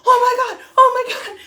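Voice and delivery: high, loud squeal; thrilled disbelief; excited shriek. Retold or imitated. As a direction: squeal with delight. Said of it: "And I'm like".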